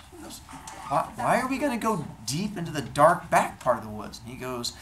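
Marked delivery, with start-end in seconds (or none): 0.9-4.2 higher, hesitant wife's question; puzzled questioning. Acted. Wife questions the odd plan.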